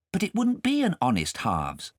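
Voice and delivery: high, lightly voiced boy; young boy. Kay answering his guardian, a high boy's voice. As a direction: answer shyly as a small boy.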